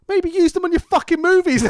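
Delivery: high-pitched exasperated outburst, laughing through it; mock exasperation. Podcaster telling director to use his expensive cameras, mock exasperated. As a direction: berate him in mock disbelief, pitch shooting up.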